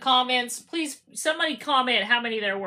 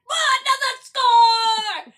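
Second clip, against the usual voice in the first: giddy raised-pitch exclamation; excited fan; 9 semitones higher, 4 dB louder, faster than usual. Acted. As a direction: celebrate like another goal went in. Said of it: "I'm like".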